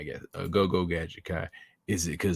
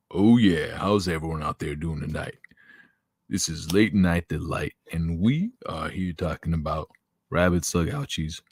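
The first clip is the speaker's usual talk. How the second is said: soul singer voice. Retold or imitated. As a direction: croon it like a mock soul singer radio DJ. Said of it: "I'm pretending to be a soul singer".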